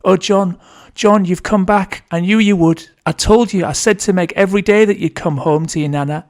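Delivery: put-on old grandmother calling out high and loud, half asleep; dreamlike calling out. A narrator's reading. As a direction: call into the dark for a lost grandson, as if dreaming. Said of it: "Nana calls out into the darkness like she's in a dream".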